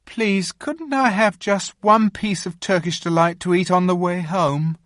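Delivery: put-on high, pleading boyish voice; eager boy. A narrator's reading. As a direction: blurt out the request. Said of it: "said Edmund suddenly".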